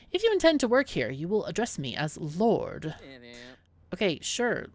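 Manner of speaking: a pompous lord, lightly voiced; haughty lord. Lord Lupo lectures the new bouncer on his title, lightly voiced and haughty. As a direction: insist on being called lord.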